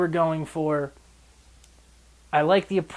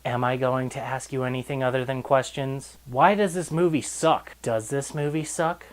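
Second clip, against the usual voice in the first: mock cryptic movie dialogue. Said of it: "preview of what the dialogue is like".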